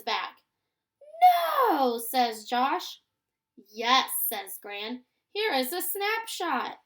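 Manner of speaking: lively storybook reading with character lines lifted; reading to children. A narrator's reading. Teacher reading a story to her class, lively and clear. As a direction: read it aloud like a picture book for young kids.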